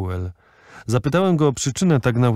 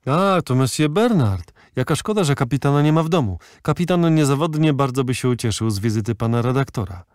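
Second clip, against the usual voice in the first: chattering valet; 3 semitones higher, faster than usual. Acted.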